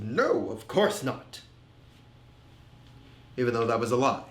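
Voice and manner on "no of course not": slow, lightly proud manly denial. Retold or imitated. Man brushing off his partner's concern, mildly proud and manly. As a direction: put on a touch of manly pride, drawn out. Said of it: "proud, manly response of".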